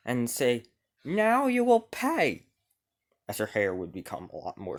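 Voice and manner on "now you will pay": high, slow, eerie threat; menacing ghost queen. Acted. Ghost queen threatening King Arthur, high slow menace. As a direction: promise vengeance as you transform.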